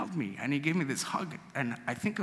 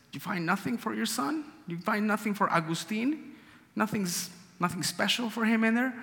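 a hint of a curious old priest, pitched up; lightly voiced priest; 7 semitones higher than usual. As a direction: ask like a kindly, surprised priest. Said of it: "And he says".

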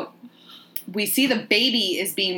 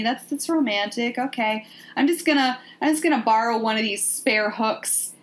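higher-pitched, mildly sarcastic politeness; mock polite; 3 semitones higher than usual. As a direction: play at being politely impressed by a dump. Mock Helen politely remarking on squalor.

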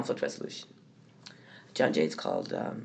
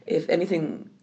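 hoarse from a cold; rough, gravelly cold voice. Real, not acted. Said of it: "without a gravelly voice".

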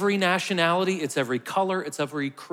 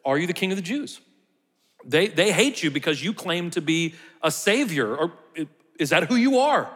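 sincere Pilate; 2 semitones higher than usual. Acted. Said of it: "I believe Pilate is being sincere".

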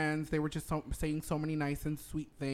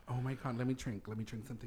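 manly voice; 6 semitones lower, 10 dB quieter, faster than usual. Pretend. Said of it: "this manly voice".

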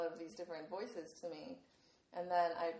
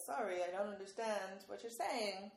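badly faked English accent, lightly done. Assistant failing to understand the user, in a mock English accent. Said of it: "with this English accent saying".

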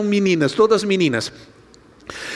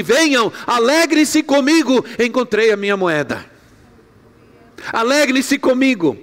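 joyful woman calling friends; 3 semitones higher than usual. Acted. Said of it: "se encheu de alegria".

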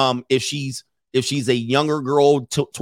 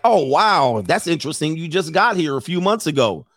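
casual interest; 2 semitones higher than usual. Shown as a demonstration. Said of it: "Just be like".

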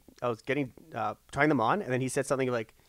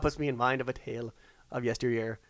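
mock storyteller; 3 semitones lower, 6 dB quieter than usual. Repeats the mock storyteller line.

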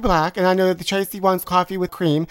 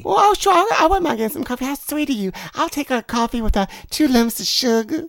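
lightly higher, fast sugary Southern voice; sweet Southern belle; 5 semitones higher than usual. Pretend. Texan Tracy accepting coffee in sugary Southern voice. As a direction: gush like a delighted Southern belle.

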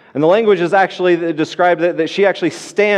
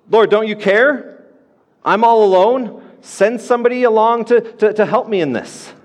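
complaining Martha; 6 semitones higher than usual. Retold or imitated. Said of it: "You hear, hear how this, this complaint starts erupting".

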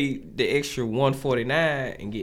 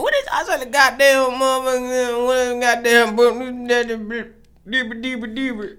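mock high voice; 9 semitones higher, slower than usual. Mock voice impersonating a taco eater.

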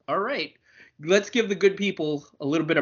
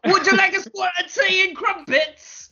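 hammed-up posh British accent. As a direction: offer tea like a mock English butler.

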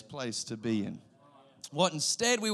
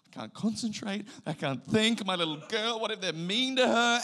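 hammed-up worried dad, pitched up; mock anxious fretting; 5 semitones higher than usual. Dad at work worrying about his little girl, mock panicky. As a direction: fret like an overprotective father.

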